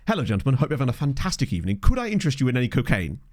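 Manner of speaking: lightly voiced courteous dealer; polite drug dealer. Dealer approaching men outside a pub, mock-polite pitch. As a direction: make a courteous, posh-ish sales pitch. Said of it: "the politest drug dealer I've ever".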